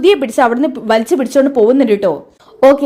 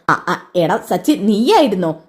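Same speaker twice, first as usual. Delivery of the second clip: lightly voiced old father, puzzled; father wondering what's wrong with his son; 4 semitones lower than usual. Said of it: "അങ്ങോട്ട് അച്ഛൻ വരുന്നത്".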